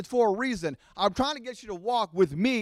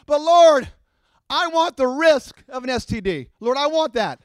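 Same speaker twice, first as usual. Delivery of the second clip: whiny believer; 2 semitones higher, 8 dB louder than usual. Acted. Preacher voicing whiny congregant.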